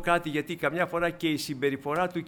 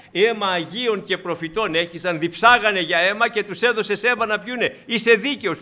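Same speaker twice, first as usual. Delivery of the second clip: declaiming angel; 4 semitones higher, 8 dB louder than usual. Acted. Preacher voices the angel's proclamation.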